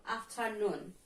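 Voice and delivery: "afternoon" stressed on its final NOON; stress on last syllable. Shown as a demonstration. Teacher repeats "afternoon", last syllable stressed. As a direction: lean on the end of "afternoon": af-ter-NOON. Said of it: "stress in the last syllable".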